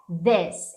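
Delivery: "this" with a short, closed vowel. Shown as a demonstration. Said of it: "É um i fechado".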